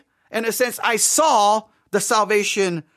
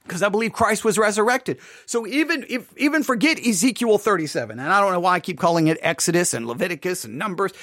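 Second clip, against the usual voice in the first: ordinary talk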